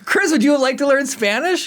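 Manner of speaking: high singsong offer; playful invitation. Real, not acted. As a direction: lure him in playfully. Teasing invitation.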